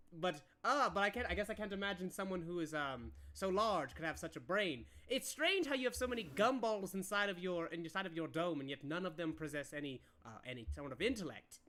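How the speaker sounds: lightly voiced condescending academic; a touch of pompous mockery; haughty counselor. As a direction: insult them with learned disdain, pitch sinking toward the end.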